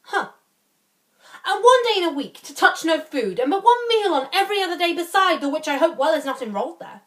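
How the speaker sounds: swooping pitch and long pauses as you balk; reluctant protesting lord. Acted. Playing Barone, balking at the oath.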